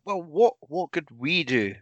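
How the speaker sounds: burp through the words; words pushed out on a burp. Real, not acted. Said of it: "Pardon me".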